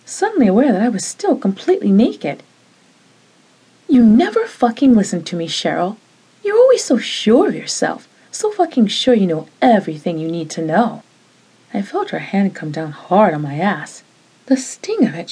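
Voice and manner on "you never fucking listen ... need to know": heated, raised scolding; angry accusation. Acted. Jeannie lashing out at Cheryl, angry accusation. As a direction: turn the tables on her.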